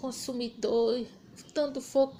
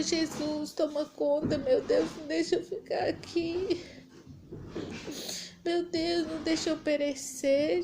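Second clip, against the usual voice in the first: retold anguished prayer, pitched up; imploring; desperate plea; 2 semitones higher than usual.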